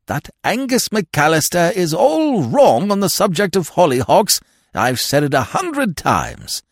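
high-pitched, indignant rant; exasperated. Acted. Lord complaining about hollyhocks, exasperated. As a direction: insist shrilly on your grievance.

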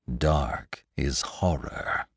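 low, soft and very slow; a shout held inward, slow and hushed; silent shout. A narrator's reading. He answers the townsfolk facing their little houses, silently shouted. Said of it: "he shouted, silently".

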